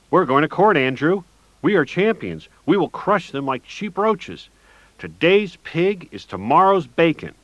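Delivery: rally him like a crazed coach; high manic victory speech; manic rally cry. Acted.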